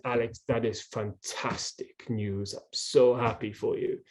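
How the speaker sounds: imitating the coach's heartfelt congratulation, low and soft; tender, hushed praise as the German coach; warm congratulation. Retelling coach's moved, happy reaction.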